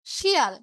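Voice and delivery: loud "শিয়াল" opening on sh; palatal SH pronunciation. Shown as a demonstration. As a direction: say "শিয়াল" as shial, loudly. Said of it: "তালব্য স্বর উচ্চারণ হচ্ছে". ("শিয়াল" শব্দে জোরালো তালব্য শ)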